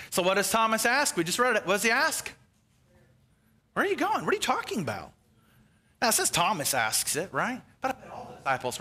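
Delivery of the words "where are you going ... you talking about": high-pitched puzzled questioning; mock bewilderment. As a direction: imitate a baffled disciple, pitched up. Voicing Thomas's bewildered question.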